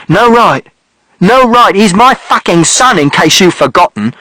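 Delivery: roaring back in fury; father shouting. A narrator's reading. Father yelling at mother about his son, enraged. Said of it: "And father shouted".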